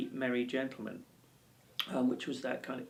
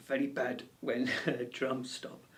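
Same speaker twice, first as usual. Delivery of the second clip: slow warning in a put-on accent, half laughing; badly faked Welsh-Indian accent, drawn out; mock mixed accent. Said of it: "uh, accent".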